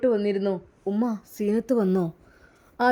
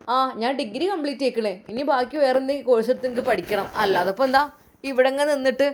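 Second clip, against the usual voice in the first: defiant daughter; 2 semitones higher, 3 dB louder than usual. Acted. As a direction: press her father hard for what she wants. Daughter voiced demanding to study.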